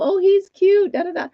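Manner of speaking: high-pitched mimicked fawning; mock gushing. People first seeing the dog, mock gushing.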